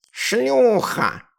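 high, loud spat insult; venomous hiss. A narrator's reading. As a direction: spit the insult at her. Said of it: "прошипел котёнок". (злобное шипение, выше и громче)

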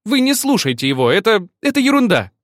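high, loud flustered plea. Acted. Ольга смущённо умоляет господина не слушать Максима. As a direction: rush it, embarrassed and pleading. Olga flustered, pleading with master.

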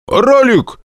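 bark a shout. A narrator's reading. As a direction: yell it at full force, overdoing it. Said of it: "гаркнул я, что есть мочи".

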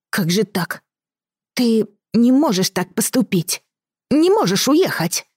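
put-on high, pleading boy's voice; upset child. Boy upset groom leaves.

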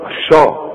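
الشا with a dark back "a"; wrong heavy shin. Shown as a demonstration. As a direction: show الشا thickened, as the mistake. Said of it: "لا، من الشاء". (الشا بتفخيم الشين غلط)

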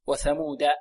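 وثمودا with a plain D, "wathamuda"; a firm D after the long U in وثمودا; correct د. Shown as a demonstration. Teacher restores the correct reading, hard D in وثمودا. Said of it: "فهكذا نقرأ".

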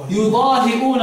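يضاهئون as yudaahi'uuna; recited يضاهئون, glottal stop before the long u; haa-kasra plus hamza. Shown as a demonstration. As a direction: catch the voice between hi and uu in يضاهئون. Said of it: "همزة مضمومة".

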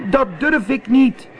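high, frightened little-cat voice; calling cat. Acted. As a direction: call back that you daren't, very high. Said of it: "riep Zwervertje". (bang roepende kat, hoge stem)

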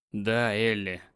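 husband insisting to his wife. A narrator's reading. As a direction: press the point calmly. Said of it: "настаивает Кристофер".

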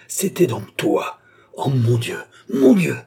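slow outraged accusation building to a high, loud cry; savage fury. A narrator's reading. Young woman recognising her attacker, fury rising to a cry. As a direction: build from horrified recognition to a shriek. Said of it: "avec une sauvage fureur".

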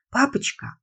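put-on high, pleading girl's call; little girl voice. A narrator's reading. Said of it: "наконец сказала Лиза".

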